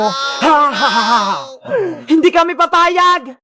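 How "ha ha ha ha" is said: low, gloating ha-ha; villain laugh. Acted. Villain threatening Bebang and Iska, evil laugh.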